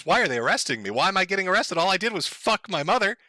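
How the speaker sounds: mildly bewildered imitation; lightly acted puzzled protest; mock confusion. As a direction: play at innocent bafflement. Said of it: "completely confused?".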